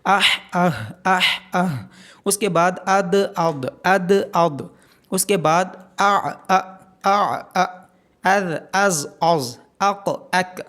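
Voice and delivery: quick recap of paired sounds; letter sound drill. Shown as a demonstration. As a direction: run through each contrast. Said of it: "آپ سات دن آپ نے practice کرنی ہے".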